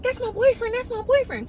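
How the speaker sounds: squeaky imitation of the girl; frightened girl. Girl reveals boyfriend.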